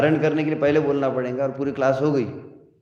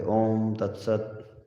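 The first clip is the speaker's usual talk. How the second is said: slow, drawn-out sacred phrase; imitated closing invocation; 2 semitones lower, 4 dB quieter, much slower than usual. Teacher quoting how a swami closes his discourse, drawn-out invocation. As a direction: lightly imitate a swami, stretching the syllables. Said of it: "कथा ज्ञान बोलते".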